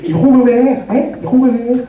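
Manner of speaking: exaggerated Flemish rolled R; mock a Flemish accent, rolling the R hard; hammed-up Flemish pronunciation. Shown as a demonstration. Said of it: "Le problème, c'est l'accent".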